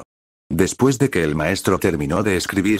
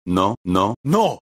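nervous protest; much slower than usual. A narrator's reading. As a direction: protest with a rising touch of nerves. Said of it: "Nerviosa, la maestra agita las manos y exclama en defensa". (protesta algo nerviosa)

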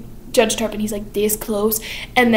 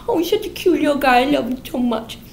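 lightly voiced gushing fondness, quick; 5 semitones higher than usual. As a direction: coo over the boy a little fast. Miss Levitt gushing over Toby.

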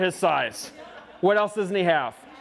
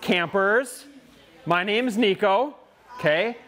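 calling out; 3 semitones higher than usual. Real, not acted. Calling out to the campers.

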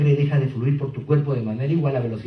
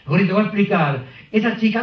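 put-on pleading boyfriend; 5 semitones higher than usual. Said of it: "si él le dice".

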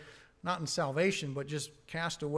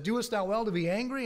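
raised, higher, louder rebuke; God's challenging voice; 6 semitones higher, 4 dB louder than usual. Retold or imitated. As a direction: call him out like God questioning. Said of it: "God called him out and said".

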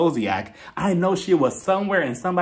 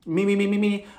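higher, sustained warm-up notes; mock vocal warm-up; 4 semitones higher than usual. Host plays Jacqueline preparing to act, mock vocal warm-up. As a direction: warm up like an actor before a take.

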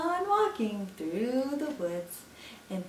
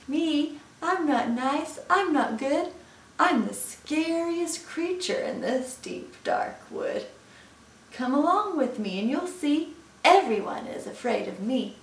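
higher-pitched plucky little mouse; boastful mouse; 6 semitones higher, 3 dB louder than usual. Acted. Mouse tells Gruffalo everyone fears him, boastful. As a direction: talk yourself up in a higher voice.

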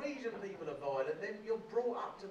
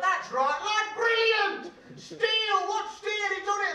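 much higher and louder, stretched-out praise; ecstatic teacher; 10 semitones higher, 9 dB louder, slower than usual. Retold or imitated. Rugby teacher cheering Steele for flattening a boy, high and loud. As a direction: cheer like a coach gone wild with delight.

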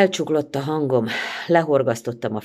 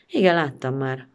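curt. Acted. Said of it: "mondta kurtán".

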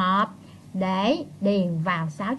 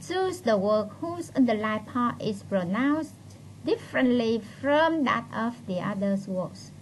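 slow, measured English read-out; reading instructions aloud; slower than usual. Real, not acted. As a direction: read the exam rubric out slowly. Reads exam instruction aloud.

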